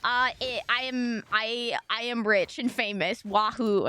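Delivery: halting, slow clueless star; lightly voiced oblivious big streamer, underwhelmed; slow, dim-witted mock boast; clueless success. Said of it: "they're just kinda like".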